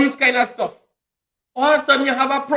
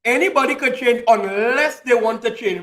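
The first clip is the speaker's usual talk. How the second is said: emphatic restatement. Real, not acted. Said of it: "I'll say it again".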